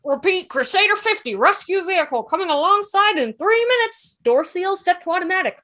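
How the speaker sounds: radio call. Acted. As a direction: read it like a radio message. Radio announcement.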